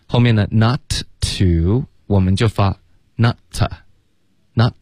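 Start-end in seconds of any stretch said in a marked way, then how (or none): 3.2-4.7 "not" with the final t held back; slow "not", its t swallowed; dropped t in "not". Shown as a demonstration. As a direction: stop the t of "not" unreleased. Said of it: "not的t省略了".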